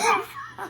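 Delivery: sudden high burst of laughter; high cackling laugh. Real, not acted. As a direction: cackle at your own joke. Laughs at her own punchline.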